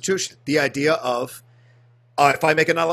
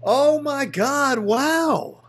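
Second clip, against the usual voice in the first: amazed whisper; 9 semitones higher, 4 dB louder, much slower than usual. Real, not acted. Hearing the actor's name.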